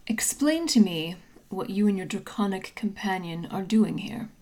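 measured, serious interrogator; intimidating, serious. Acted. Armored woman questioning a trespasser, intimidating and serious. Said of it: "very intimidating indeed and incredibly serious".

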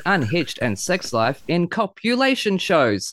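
put-on hyped-up host announcer read, caricature Aussie accent; punning show introduction. Podcast host introducing a Broadway star to listeners, showy announcer read. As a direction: roll out a wordy guest intro with showy lilt.

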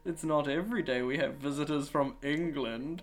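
high, loud hammy British dad; British accent. Acted. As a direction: keep the put-on British accent. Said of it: "in his best British accent".

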